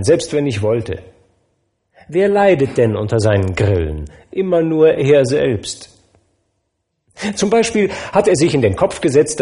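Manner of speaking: forgiving nephew, easygoing; a hint of a jovial young man; good-natured nephew. Nephew's voice, amused.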